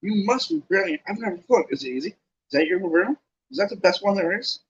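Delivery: put-on high, excited boyish voice; eager Colin. A narrator's reading. Starstruck boy pestering Harry, high and eager. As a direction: gush up at Harry like a fan.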